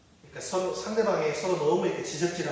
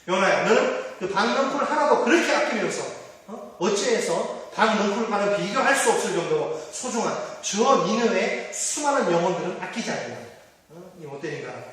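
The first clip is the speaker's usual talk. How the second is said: 1 God's rebuke; 3 semitones higher than usual. Acted. God rebukes Jonah in sermon.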